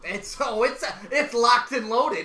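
loud, slow wrestler boast; hammed-up wrestling promo; Seth Rollins. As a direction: declare it with swagger. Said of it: "Seth Rollins is coming".

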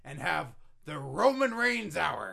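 loud, slow hype announcement; booming promo voice. Acted. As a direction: sell it like a wrestling promoter. Vince hyping Roman.

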